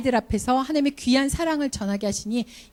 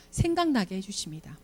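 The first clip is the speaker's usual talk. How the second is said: soft refrain; 3 semitones lower, 6 dB quieter than usual. Real, not acted. Preacher repeating the promise to teachers, hushed and low. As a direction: lower and softer, 생각나게 gently falling.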